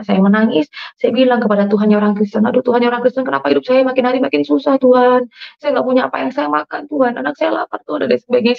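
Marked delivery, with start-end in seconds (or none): 1.9-8.1 mildly plaintive, higher-pitched plea to God; retold tearful prayer. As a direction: plead with a touch of tears. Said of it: "Saya ngomong sambil nangis". (doa memelas sedikit menangis)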